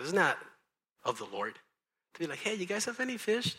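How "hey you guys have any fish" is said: higher, casual calling-out voice; lightly acted shout across the water. Jesus to the fishermen about their catch, casual calling out.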